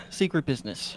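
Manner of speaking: hushed repeat. Acted. Repeated lower and softer.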